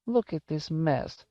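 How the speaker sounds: put-on high, slow old-lady voice; high-pitched old woman covering her confusion; fussing old woman. A narrator's reading. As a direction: draw it out high, flustered elderly woman.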